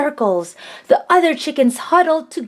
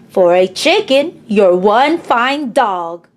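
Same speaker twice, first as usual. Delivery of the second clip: tender whisper. Acted. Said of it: "Mama patted Pookie's head and whispered".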